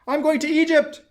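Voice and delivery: high, loud excited cry; eager cry. A narrator's reading. Swallow crying out its plan to fly south. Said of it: "cried the swallow".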